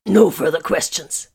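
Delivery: loud, slow, sarcastic; dry sarcastic finality; dark sarcasm. A narrator's reading. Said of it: "dark sarcasm in his tones".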